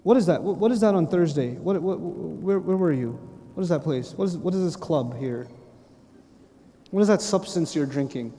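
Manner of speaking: low, quiet, probing questions; acted-out inspector going through a record; interrogating angel. Angel questioning someone over their book, suspicious.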